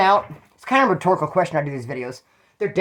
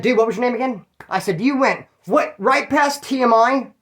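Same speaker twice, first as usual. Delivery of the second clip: higher, teasing reproach; ribbing the driver for oversharing, higher; mock lecture, higher voice; retold scolding; 5 semitones higher than usual.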